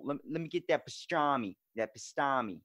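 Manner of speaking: lightly put-on Boston accent. Shown as a demonstration. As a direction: drop the R's in a Boston accent. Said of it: "like, Boston's like".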